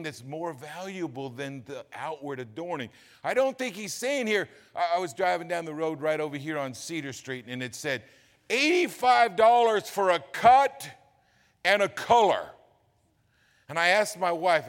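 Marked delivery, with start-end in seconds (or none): 3.2-14.7 high, loud preacher's cry; impassioned sermon delivery; full-force preaching. Real, not acted. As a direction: hammer it home from the pulpit.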